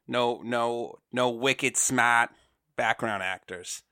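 put-on slow, light Boston accent. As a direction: drag out wicked smart in Boston accent. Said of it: "that's enough of my Boston accent".

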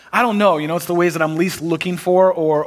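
ordinary talk, nothing marked

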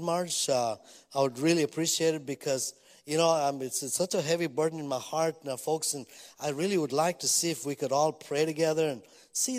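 lightly mock a pastor begging the congregation; mock pleading request. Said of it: "that's like me saying".

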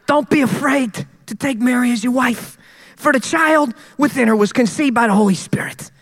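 a lightly voiced angel announcing. The angel of the Lord speaking to Joseph in a dream, lightly voiced. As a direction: deliver it like a heavenly messenger, only slightly. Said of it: "how angels of the Lord sound to me".

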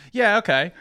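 put-on high, loud New Zealand accent; exaggerated amateur New Zealand accent. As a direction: remember the Kiwi accent and lay it on. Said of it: "oh, New Zealand accent".

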